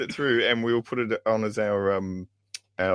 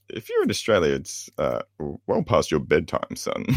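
fake British Indian accent; 6 semitones lower than usual. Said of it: "Is that how Aussies speak?".

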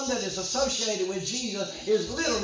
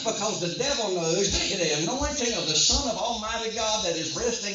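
driving, unbroken sermon delivery; forceful preaching; 2 semitones higher than usual. Real, not acted. Preacher warning the congregation hell will oppose them, forceful preaching. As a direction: preach it hard, phrase after phrase.

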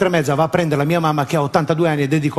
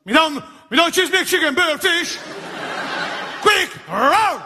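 higher, confused mangled English order; a hint of a flustered customer; fumbling order; 10 semitones higher, slower than usual. Customer ordering a garbled burger, lightly voiced. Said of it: "mi diceva".

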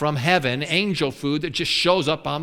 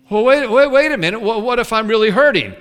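protesting believer; 3 semitones higher, faster than usual. Acted.

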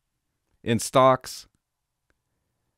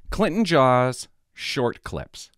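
slow, spelled-out name; 3 semitones higher, much slower than usual. Shown as a demonstration. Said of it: "I'm gonna tell you the name of it".

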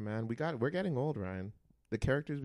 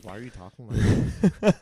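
mock outburst; 14 dB louder than usual. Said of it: "I'm like".

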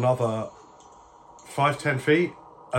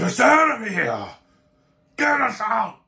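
raised, forceful demand; high, loud plea for release; another prisoner; 9 semitones higher, 4 dB louder than usual. Acted. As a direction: call out insistently from the cells. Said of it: "another voice just goes like".

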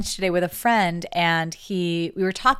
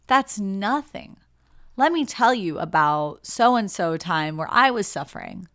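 mock one-upping; 3 dB louder than usual. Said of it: "confuses connection with the opportunity to one-up".

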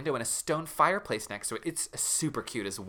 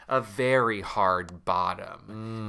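slow low repeat; 4 semitones lower, much slower than usual. Acted. Repeating Justin's line.

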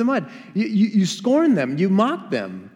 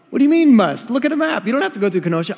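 mock disbelief; 5 semitones higher, 4 dB louder, much faster than usual.

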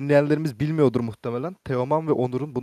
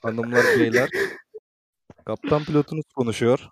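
airline pilot announcement; 5 dB louder than usual. Pretend. Mock pilot signing off.

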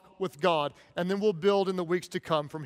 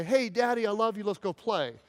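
put-on sincere child. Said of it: "with authenticity".

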